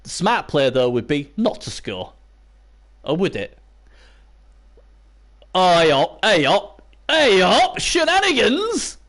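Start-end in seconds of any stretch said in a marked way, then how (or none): 5.6-9.0 rising higher and louder with excitement; excited. Real, not acted. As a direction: builds to a high, amazed exclamation. Sudden turn in the game.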